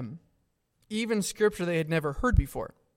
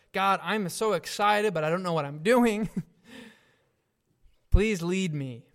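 excited prayer. Retold or imitated. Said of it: "being totally honest, like".

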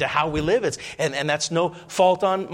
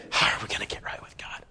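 doubting whisper; 6 dB quieter than usual. Retold or imitated.

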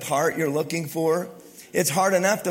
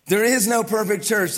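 louder, higher proclamation; preacher proclaiming it to the congregation; emphatic declaration; 4 semitones higher, 5 dB louder than usual. Real, not acted. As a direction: declare it to the whole room. Restated for emphasis.

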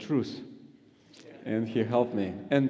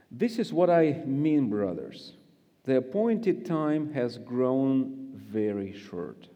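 measured, preached reading of scripture. Acted. Guest preacher reading First Corinthians to the congregation, preached. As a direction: read the passage with weight and rising emphasis.

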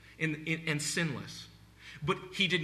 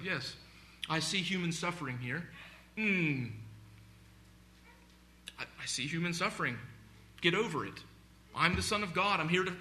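mock stoic; 2 semitones higher than usual. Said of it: "we think of Jesus like this stoic".

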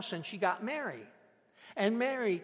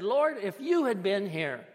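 raised, reproachful plea pitched up; a touch of anger, voice lifted; angry reproach; 5 semitones higher, 6 dB louder than usual. Acted. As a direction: accuse the one who came too late, louder. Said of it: "can you hear the anger in her words".

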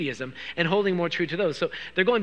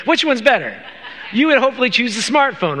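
laughing; 4 semitones higher, 5 dB louder than usual. Real, not acted. Joking about phones with congregation.

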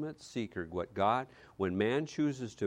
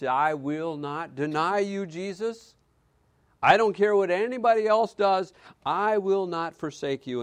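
Peter's defiant promise, louder and higher; Peter's bold vow; 7 semitones higher, 7 dB louder than usual. Acted. Peter vowing to Jesus, loud and defiant. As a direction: proclaim loyalty like a brash disciple.

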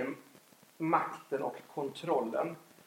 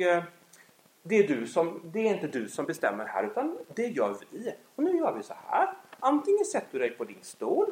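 stern parent; 4 semitones higher than usual. Retold or imitated. Stern parent to defiant child.

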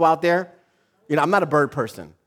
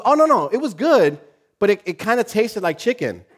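higher-pitched, breezy mom voice; mom's innocent reassurance; 5 semitones higher than usual. Retold or imitated. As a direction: play a mom cheerfully waving off the worry. Mom reassures, delivers punchline.

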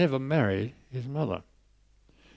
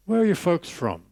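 friendly voice; 4 semitones higher than usual. Retold or imitated. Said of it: "nice friendly voice".

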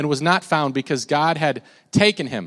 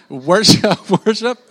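laughing, loud attempt at a British accent; hammed-up British accent, pitched high; mock British accent; 6 semitones higher, 8 dB louder, slower than usual. Shown as a demonstration. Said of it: "say it in your best British accent".

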